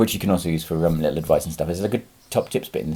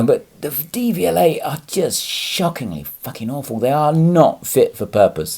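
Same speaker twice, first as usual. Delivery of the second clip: irate; 4 semitones higher than usual. Real, not acted. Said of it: "I'm getting really irate now".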